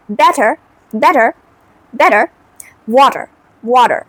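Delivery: "better" and "water" with the T softened towards D; American soft T. Shown as a demonstration. Teacher drilling learners, "better" and "water" with soft American T. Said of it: "softly একটু ডি বানায় ফেলে".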